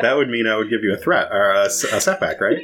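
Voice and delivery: talking through laughter; laughing. Real, not acted. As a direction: say it while still laughing.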